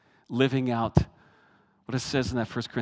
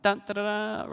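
imitated fanfare; 10 semitones higher than usual. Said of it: "Pastor Bob always went".

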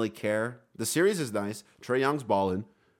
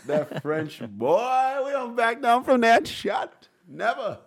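slow, emphatic rallying cry, rising high at the end; a fan urging Grayson Allen to go at Gobert; hype cheer; 4 semitones higher, much slower than usual. Retold or imitated. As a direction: egg him on like a fan yelling at the TV. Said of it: "I was like".

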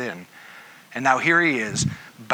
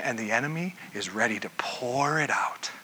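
ominous whisper; 2 semitones lower, 7 dB quieter than usual. Real, not acted. Warning about the enemy.

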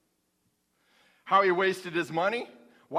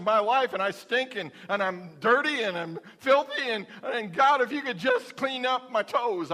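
pleading sinner's prayer. Acted. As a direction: pour it out like a desperate sinner at the altar. Sinner's prayer acted in sermon.

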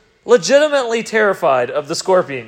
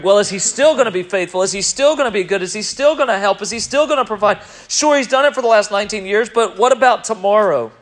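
voice of doubt; 2 semitones higher, 4 dB louder, faster than usual. Retold or imitated.

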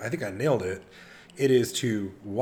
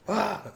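mock startled yelp; 10 semitones higher than usual. Eric waking in bathtub.

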